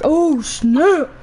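high, loud shocked cry; loud startled exclaim. Retold or imitated. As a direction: blurt it in shock.

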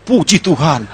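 mock relief. Rider relieved after narrow stop, praises.

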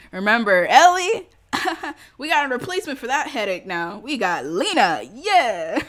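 loud, high, laughing hype; giddy gossip bursting with laughs; laughing glee. Real, not acted. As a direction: crow with laughter, swooping up high. Laughing gossip about the new character.

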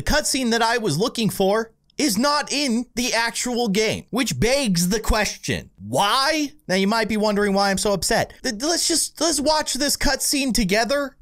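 worked-up, high-pitched indignation; high and aggrieved, feeling cheated; high-pitched angry. Real, not acted. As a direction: rant in a high, exasperated voice. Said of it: "that was my high-pitched angry voice".

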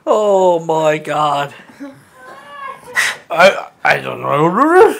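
talking through a mouthful of food; words round a big bite; mouth full. Acted. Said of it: "Read the joke like you have a mouthful of food".

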